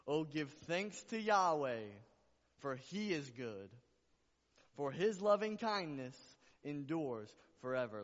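very loud, soaring scripture declaration; emphatic repeated proclamation. Real, not acted. Preacher repeating a beautiful verse to the church, exultant full-force proclamation. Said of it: "I gotta say it again".

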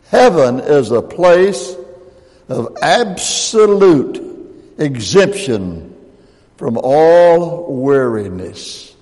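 slow, drawn-out emphasis. Shown as a demonstration. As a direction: drag each word out slowly. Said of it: "Watch this".

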